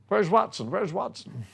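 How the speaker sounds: calling out. Retold or imitated. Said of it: "I remember Roger's voice saying".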